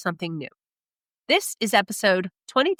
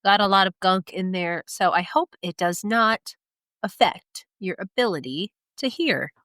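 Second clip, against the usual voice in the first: congested. Real, not acted. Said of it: "I have a little bit of a cold".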